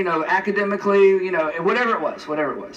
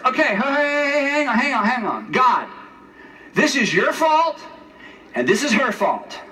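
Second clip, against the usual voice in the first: higher, mock indignant rant with laughs; mock indignant Adam; 4 semitones higher than usual. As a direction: play a petulant Adam lecturing God. Mock Adam scolding God.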